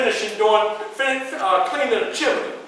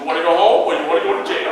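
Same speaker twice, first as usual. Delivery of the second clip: Denzel Washington impression; 4 semitones lower, faster than usual. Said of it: "She like Denzel Washington".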